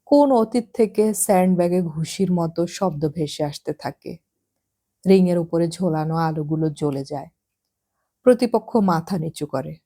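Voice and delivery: ordinary delivery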